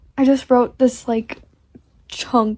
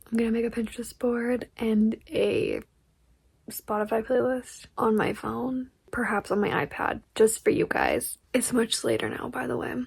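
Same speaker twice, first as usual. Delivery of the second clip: soft, hushed talk; quiet late-night voice; 7 dB quieter than usual. Real, not acted.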